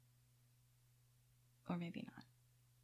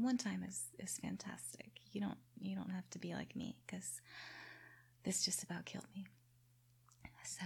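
whispering. Acted. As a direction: whisper close to the mic. Whispered closing talk to listeners.

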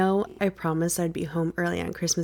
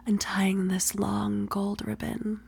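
whispering; 4 dB quieter, slower than usual. Acted. Whispered roleplay.

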